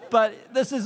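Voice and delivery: chuckling through the words at oneself; amused laughing. Real, not acted. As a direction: talk through a laugh, pitch lifted. Amused at own accidental accent.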